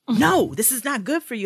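a hint of a fussing mother; nagging mom.

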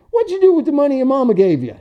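high, fast mocking old guy voice; high, fast taunting old-timer; old clerk's taunt. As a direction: needle the kid like a crusty old clerk.

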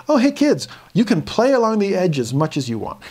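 high breezy mock parent voice; careless parent. Parent at the canyon edge calling to kids, breezy high. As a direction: play the too-relaxed parent, airy and high.

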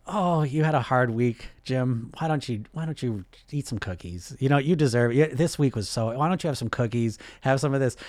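lightly voiced coddling grandmother; grandmothery voice. Grandmother offering Jim cookies, lightly coddling. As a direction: coax with a hint of doting granny. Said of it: "like, the grandmothery voice".

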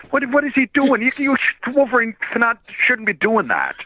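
high-pitched, incredulous protest; mock disbelief. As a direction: protest as if you can't believe it. Acting out his baffled disbelief.

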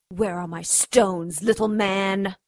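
slow, pressing threat; menacing demand. Acted. Demanding the stones again.

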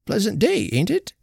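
affable. A narrator's reading. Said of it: "he remarked affably".

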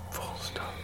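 whispered punctuation aside; whispered dictating. Acted. Journalist dictating his own punctuation.

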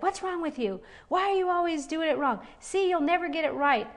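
accusing voice. Retold or imitated. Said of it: "That is an accuser".

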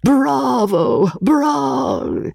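high, purring bravo of a fat count; smug, oily murmured bravo. Acted. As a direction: purr it like a great contented cat. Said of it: "his oily murmur of approval".

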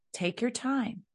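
lightly lilting, high permission; mildly singsong, unbothered; breezy parent. Shown as a demonstration. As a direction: toss it off high and easy. Models breezy response to child.

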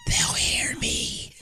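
imitating his high partner, whispered and scared; imitated whisper. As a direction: hush it like someone hiding. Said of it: "And you're like".

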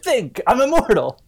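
ordinary talk

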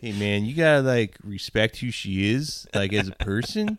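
laughing, mellow hippie advice; a laid-back stoner counselor. Retold or imitated. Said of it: "Tommy Chong".

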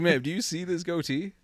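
hammed-up hero brag; mock action hero. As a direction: play the movie hero for the flight attendant. Boasting hero to flight attendant.

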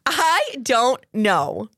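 slow drawn-out I don't know; baffled. Real, not acted. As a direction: stretch it in disbelief. Baffled by robber.

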